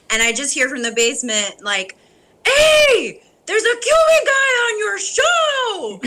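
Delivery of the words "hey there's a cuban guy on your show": put-on loud, high laughing shout with a heavy Cuban accent; dad's heavy accent. Dad calling from the basement about the Cuban actor, loud heavy-accented shout. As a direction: call up from the basement in a thick accent, half laughing. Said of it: "With a heavier accent".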